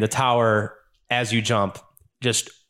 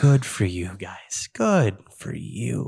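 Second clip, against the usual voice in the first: slow, smug and condescending; smug villain; 2 semitones lower, much slower than usual. Acted. Villain taunting the party, slow smug drawl. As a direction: drag it out like mocking praise. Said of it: "he's like".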